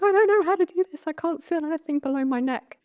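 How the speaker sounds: high, strained, near-crying voice; tearful confession. Retold or imitated. Her turn in the circle, a high tearful confession. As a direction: squeeze it out through tears. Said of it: "I'm absolute floods of tears".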